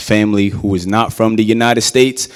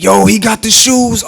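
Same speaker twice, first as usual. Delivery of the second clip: put-on admiring kids; 10 semitones higher, 4 dB louder than usual.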